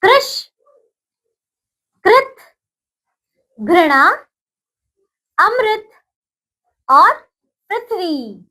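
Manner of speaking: each word spoken clearly, with gaps to repeat; recitation. Shown as a demonstration. Teacher leading children in pronunciation, clear and paced. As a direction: model the words one by one for echoing. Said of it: "अब हम उच्चारण करते हैं".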